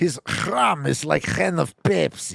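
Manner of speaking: put-on Eastern European accent. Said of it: "Can you do a Borat voice?".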